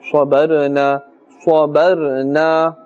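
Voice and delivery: swabarna with the r drawn out into a faint extra vowel; ra wrongly stretched. Shown as a demonstration. Teacher warns of an added fatha, stretched ra in swabarna. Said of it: "Stretching the sound may seem like we are adding a fatha".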